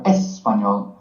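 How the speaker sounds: español wrongly stressed on the first syllable, es-. Shown as a demonstration. Teacher shows what not to say, first-syllable stress. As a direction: hit the opening "es" of español, wrongly. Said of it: "and not español or".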